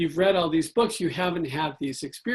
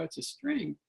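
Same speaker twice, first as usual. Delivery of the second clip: quiet flat remark; 8 dB quieter than usual. Retold or imitated. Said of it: "you look at it and you go".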